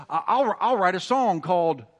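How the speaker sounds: chuckling while quoting a friend's joke; laughing through a joke. Real, not acted. Pastor retelling a friend's joke to the congregation, laughing.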